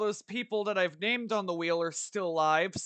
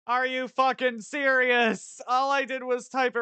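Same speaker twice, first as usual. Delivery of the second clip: frustrated outburst; 5 semitones higher, 4 dB louder than usual. Real, not acted. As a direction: spit it out, fed up. Raid fails again.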